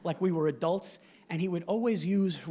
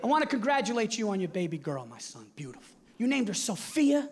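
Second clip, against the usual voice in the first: dad on the phone; 2 semitones higher than usual. Retold or imitated. Dad voiced congratulating.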